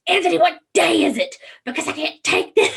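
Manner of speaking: half-laughing, fed-up plea to Anthony; retold angry outburst. Asking husband the pill day, exasperated and loud. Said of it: "I was so angry".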